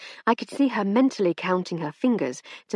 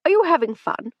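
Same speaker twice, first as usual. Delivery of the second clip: hearty, higher and louder; jovial old gent; 11 semitones higher, 6 dB louder than usual. A narrator's reading. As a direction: boom it cheerfully. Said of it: "said Sir Hector jovially".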